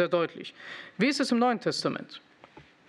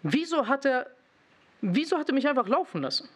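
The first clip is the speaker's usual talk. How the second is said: regretful wondering; 6 semitones higher than usual. Retold or imitated. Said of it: "denke mir".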